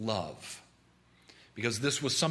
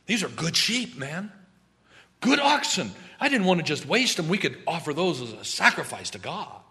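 high, louder pleading excuse; excusing Saul; 4 semitones higher, 5 dB louder than usual. Acted. Saul pleading with Samuel over the oxen, high and eager. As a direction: talk your way off the hook. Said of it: "As if that was going to get him off the hook".

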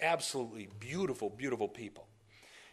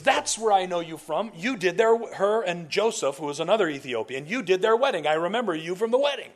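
louder, higher, acted-out excitement; excited recognition; 5 semitones higher, 6 dB louder than usual. Man recognising pastor from sister's wedding, excited. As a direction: blurt it out as the memory clicks.

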